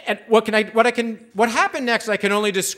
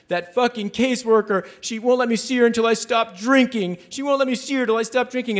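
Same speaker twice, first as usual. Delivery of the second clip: bitter complaint; 6 semitones higher than usual. Retold or imitated. Voicing the woman's bitter complaint.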